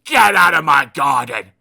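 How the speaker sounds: loud, cross order to get out; angry shout. Acted. Mister Grumpy ordering Mister Happy out of his garden, shouting. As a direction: throw him off your land.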